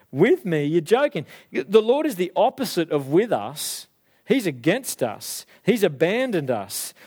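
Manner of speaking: mildly scornful, punchy retort; mocking. Gideon accuses God of abandoning them, lightly mocking. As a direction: throw it back with light mockery. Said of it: "he's effectively mocking God and saying".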